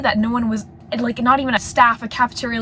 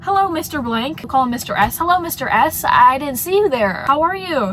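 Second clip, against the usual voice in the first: bright, high, overly sweet hello; fake innocence; 4 semitones higher than usual. Student greets officer with forced innocent cheer. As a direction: play it innocent and chirpy.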